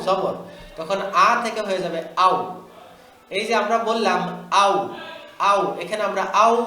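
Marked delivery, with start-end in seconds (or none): 5.4-5.8 আউ said short, no held vowel; without stretching. Shown as a demonstration. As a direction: keep আউ quick. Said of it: "টান দিব না".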